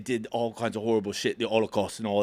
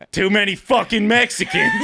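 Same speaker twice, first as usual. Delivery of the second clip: laughing mock shout; 9 semitones higher, 6 dB louder than usual. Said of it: "He's like".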